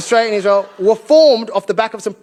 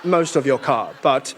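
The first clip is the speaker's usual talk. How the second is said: measured mock-British explanation, sinking lower; put-on British, coolly reasonable; condescending British official; 3 semitones lower than usual. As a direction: play a colonial official glossing over the horror. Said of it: "the British were like".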